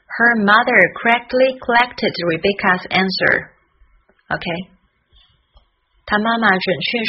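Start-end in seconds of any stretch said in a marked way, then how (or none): 0.1-3.6 tongue twister at a quicker pace; faster practice. Shown as a demonstration. Teacher showing the tongue twister sped up, somewhat quicker. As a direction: run the words together, still crisply articulated. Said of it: "从慢慢练习到加快速度".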